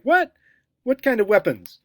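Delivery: high, loud startled what kind of weapons; mock alarm at a misheard word; alarmed question. Listeners mishearing reform as weapons, mock alarmed.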